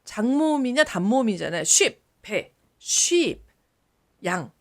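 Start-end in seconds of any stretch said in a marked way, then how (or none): 1.6-2.0 "sheep" said briefly, like ship; short vowel. Shown as a demonstration. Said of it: "이건 단모음". 2.8-3.4 "sheep" with a long ee; long vowel. Shown as a demonstration. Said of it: "이거는 장모음".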